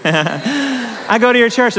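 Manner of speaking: slow, laughing quote of the man. Retold or imitated. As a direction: chuckle through his words. Man recognizes pastor at wreck.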